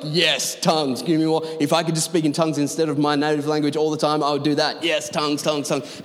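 eager, mildly hammed-up enthusiast; lightly mock an over-keen believer; crazy for it. Preacher voicing Corinthians crazy for spiritual gifts, mock eagerness. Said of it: "These guys are crazy".

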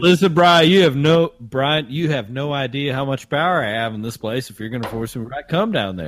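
playing Frank, a good ol' boy from Augusta; Augusta Southern accent. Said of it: "your Southern accent".

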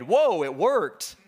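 amazed exclamation. Retold or imitated. Saul stunned that the dead prophet came up, amazed. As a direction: gasp it out like the seance shocked you.

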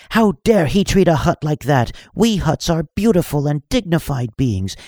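put-on high, loud, offended Hutt girl; high, loud outraged slave girl; indignant shout. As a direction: shout her wounded dignity at the room. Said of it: "she shouted".

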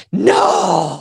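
a sharp mock shout of refusal; emphatic no. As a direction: blurt out a retold no at the cousin. Refusing to climb further.

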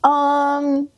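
breathy whispered um. Real, not acted. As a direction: whisper the hesitation. Whispered hesitation before plug.

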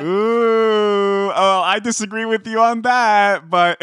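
high, bright pretend outrage; playful mock protest. Real, not acted. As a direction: push back jokingly, sing-song. Playful comeback to tease.

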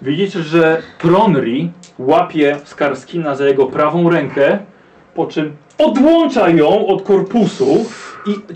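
slow, dramatic scene setting; game master narration. A narrator's reading. Game master describing the werewolf attack to players, dramatic narration. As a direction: paint the gory scene for the players.

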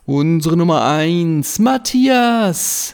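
drawn-out stadium announcer call. Pretend. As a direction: call the player's first name like a stadium announcer. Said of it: "im Stadionsprechermanier".

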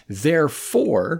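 drawn-out, falling "Therefore"; mock deduction. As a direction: declare "Therefore" like a pompous logician. Mock-logical deduction, said twice, building.

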